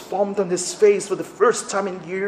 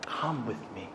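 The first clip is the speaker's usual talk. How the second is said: soft call; 6 semitones lower, 15 dB quieter than usual. Acted. Voice of Jesus calling softly.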